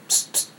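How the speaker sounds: playful psst. Retold or imitated. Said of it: "I might go".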